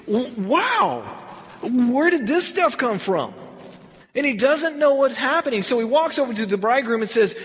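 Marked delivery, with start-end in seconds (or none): 0.1-3.3 amazed master of the feast. Retold or imitated. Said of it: "He says".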